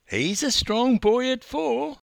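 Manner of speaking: high, bright gran's boast; enthusing grandmother. A narrator's reading. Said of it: "she enthused".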